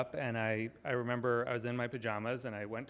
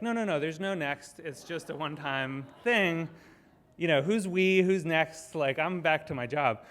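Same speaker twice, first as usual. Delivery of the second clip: mildly insistent, raised-pitch protest; retold protest; 4 semitones higher, 4 dB louder than usual. Organizer waving off emailers asking what comes next, protesting. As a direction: push back in mock disbelief, acting out your past self. Retelling his reluctant reply to emails.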